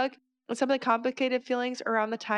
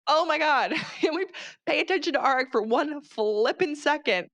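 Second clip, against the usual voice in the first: exasperated outburst; 5 semitones higher than usual. Real, not acted. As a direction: throw up your hands at the character. Exasperated rant about Violet.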